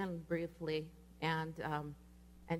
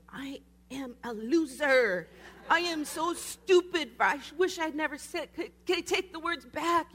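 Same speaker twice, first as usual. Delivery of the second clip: mock anguished wail; 9 semitones higher, 8 dB louder than usual. Her inner voice after saying the wrong word, mock anguished wail. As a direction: wail it at yourself, comically overdone. Retold inner panic and self-blame.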